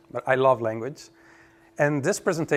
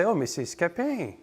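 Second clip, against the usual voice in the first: French speakers' version; 3 semitones higher, 4 dB quieter than usual. Retold or imitated. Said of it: "So they always say".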